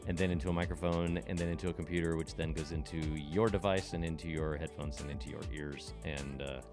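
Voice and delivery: speaking through a face mask; muffled voice behind a mask. Real, not acted. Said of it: "muffled. I'm speaking through a mask".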